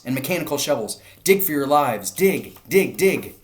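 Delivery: loud, high, desperate shouting; father fox urging his family to dig, shouting; urgent shout. A narrator's reading. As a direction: drive them to dig for their lives. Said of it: "shouted Mister Fox".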